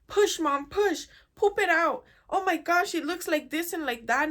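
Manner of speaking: hammed-up daughter urging her mom on; cheering daughter. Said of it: "if the daughter wasn't there".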